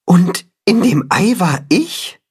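high wondering question; can't believe it; astonished chicken. A narrator's reading.

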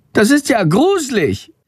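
high, squeaky little bat voice. A narrator's reading. Bat disgusted. (hohe Fledermausstimme, aufgeregt erzählend)

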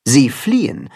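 ordinary delivery, nothing marked

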